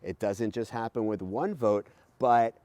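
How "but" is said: many climbing up. Shown as a demonstration. Teacher showing kids how votes add up, rising pitch. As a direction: stretch each many as the pitch keeps rising.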